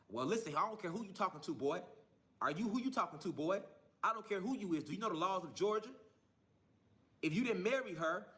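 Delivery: mildly stern, challenging officer; retold police officer. Officer threatening a father over the phone, retold sternly. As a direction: lightly imitate an officer laying down the law. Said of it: "That's exactly how she said it to me".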